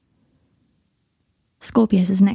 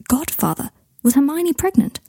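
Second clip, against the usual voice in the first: puzzled question; 7 semitones higher than usual. A narrator's reading. Harry rereading the letter, asking himself in surprise. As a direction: ask "Godfather?" as a dawning question.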